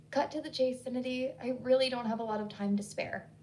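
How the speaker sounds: clipped, impatient brush-off; curt. Acted. Hillary dismissing Sinnedy on the phone, mildly curt. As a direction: cut her short impatiently. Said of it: "She sounded so curt".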